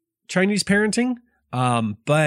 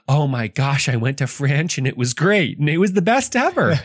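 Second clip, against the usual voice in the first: mock gushing fan; 3 semitones higher than usual. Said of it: "This book is not like".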